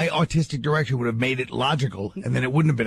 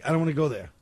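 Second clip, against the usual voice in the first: comedy bit voice; faster than usual. Shown as a demonstration. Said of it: "here's my new gym. Ready? I say".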